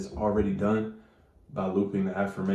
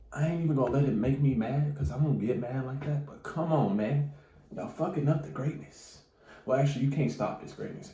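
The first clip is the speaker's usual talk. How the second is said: softer, higher, fed-up; annoyed aside; 3 semitones higher, 5 dB quieter than usual. Real, not acted. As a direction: grumble at the noisy neighbors. Annoyed at neighbors.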